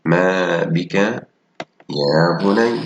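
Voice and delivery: slow, gentle parental question; lightly voiced caring parent. Shown as a demonstration. Teacher reads a mother's question to her son, slow and gentle. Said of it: "ألاحظ الجمل وأقرأها".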